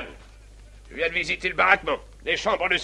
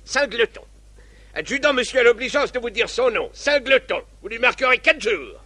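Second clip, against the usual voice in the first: drill sergeant; 2 semitones higher, 3 dB louder than usual. Acted. Captain handing out punishments.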